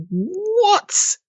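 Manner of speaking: high, stunned "What?"; shocked what. Retold or imitated. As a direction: act floored by the twist. Shocked at the reveal.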